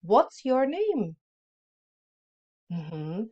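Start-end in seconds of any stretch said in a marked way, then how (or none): 0.0-1.1 louder and higher, slow; louder model. Shown as a demonstration. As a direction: say it again bigger for the class. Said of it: "Tak ještě jednou".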